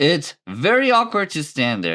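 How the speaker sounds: press-release reading voice. Speaker reading a written statement aloud, press release statement voice. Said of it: "I'm like doing like a P R release statement voice".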